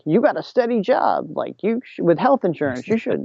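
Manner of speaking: imagined parental protest. Retold or imitated. Imagines parents objecting to the plan.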